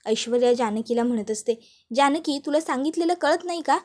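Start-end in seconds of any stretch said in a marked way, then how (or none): 2.0-3.8 higher, scornful order to get out; rude order out. Acted. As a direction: throw her out of the house. Aishwarya throws Janaki out.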